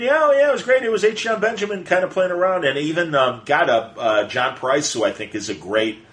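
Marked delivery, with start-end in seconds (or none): 0.0-2.6 mocking fan reviewer.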